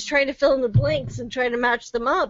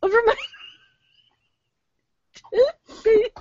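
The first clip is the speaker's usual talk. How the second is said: laughing; 8 semitones higher, 3 dB louder, much faster than usual. Real, not acted. Giggling through the punchline.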